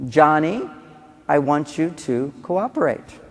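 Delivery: calm request. Shown as a demonstration. Parent to Johnny, slow calm request. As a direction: ask calmly and slowly for cooperation. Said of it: "This is what you say".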